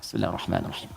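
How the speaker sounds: very soft, low murmur; silent recitation. Shown as a demonstration. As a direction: recite it almost inaudibly, to yourself. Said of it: "Nabi bacanya sir, silent".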